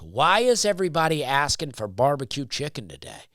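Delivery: quoting the server at a normal pace. Retold or imitated. To the listener, retelling the server's question, plainly. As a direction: repeat the server's question as he asked it. Server quoted, then repeated.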